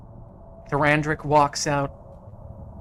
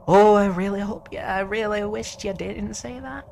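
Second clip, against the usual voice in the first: higher, louder, faster theatrical sigh; mock regret; 7 semitones higher, 4 dB louder than usual. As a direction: hero feigns sorrow before fighting. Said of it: "he's like".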